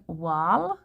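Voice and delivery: "wal" with an open ah vowel; stretched "wal", opened right up; pronunciation demo. Shown as a demonstration. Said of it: "Wool to me is like".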